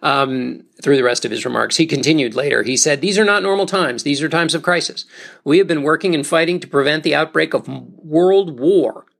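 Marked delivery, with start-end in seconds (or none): 3.0-9.1 lightly voiced president giving a radio address; raised, formal presidential delivery, a touch higher; Truman speech. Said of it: "I'll just do Truman".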